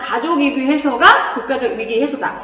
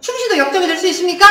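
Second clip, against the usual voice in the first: quick acted challenge; brisk mock reproach; mildly confrontational; 3 semitones higher, faster than usual. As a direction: call someone to account, mildly. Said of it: "약간 따지는 것 같지 않니".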